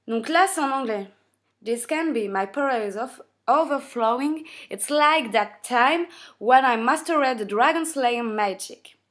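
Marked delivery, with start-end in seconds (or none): 1.6-9.0 slow, drawn-out villain line read; Acnologia reading. Acted. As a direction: declaim the manga line slowly in English.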